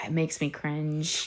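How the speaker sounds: slow whispered cringe; whispering. Real, not acted. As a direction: whisper it slowly, disgusted. Cringing at board game waste.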